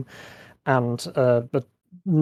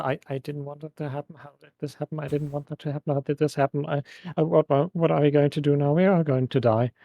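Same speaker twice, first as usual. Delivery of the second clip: panicked, quiet and fast babble; gibbering in shock; 3 semitones higher, 3 dB quieter, faster than usual. Acted. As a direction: babble it in shock, stumbling over words. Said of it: "gibbering to himself".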